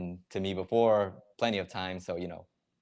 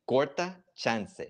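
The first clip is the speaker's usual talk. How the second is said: slow teaching pronunciation; 5 semitones higher, 3 dB louder, slower than usual. Shown as a demonstration. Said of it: "I guess it's two words technically".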